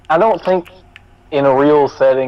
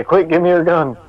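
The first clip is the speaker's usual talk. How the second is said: quick urgent call, pitched up; urgent demand; 4 semitones higher than usual. Acted. Player urging Victor to hand over the gun, urgent. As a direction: blurt it out higher, in a hurry. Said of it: "look over to Victor and say".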